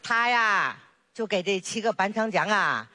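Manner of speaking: put-on chatty old granny voice, fond and teasing; village grandma. Grandma to her neighbour and baby granddaughter, fondly teasing. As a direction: play a proud grandma showing off her grandchild.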